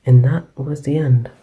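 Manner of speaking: hushed storyteller with firm phrase openings; bedtime story narration. Acted. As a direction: read a bedtime story close to the mic.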